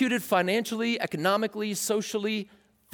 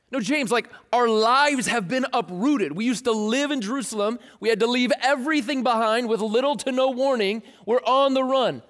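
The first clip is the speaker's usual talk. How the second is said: higher exasperated pushback; whiny protest; 5 semitones higher than usual. Pretend. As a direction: argue back, fed up. Believers argue with James.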